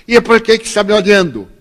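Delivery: retold quarrelsome accusation; indignant challenge. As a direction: imitate the stranger demanding an answer. Retold quarrel in airport queue.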